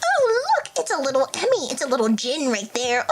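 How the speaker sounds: playful, silly pointing-out voice; silly cooing. Pretend. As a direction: coo as if spotting something tiny. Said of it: "said it like that".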